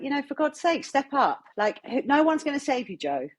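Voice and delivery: giving yourself a firm talking-to, retold; retold self pep talk. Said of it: "I was just like".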